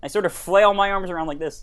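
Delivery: Kermit the Frog impression; earnest Muppet frog voice. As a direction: talk like the hesitant talking frog puppet.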